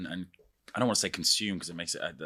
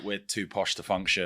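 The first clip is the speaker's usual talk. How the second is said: put-on slow, over-posh British accent; mock an upper-class British accent. Illustrating binary portrayals of Brits, exaggerated posh accent. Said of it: "Yeah, or it's like".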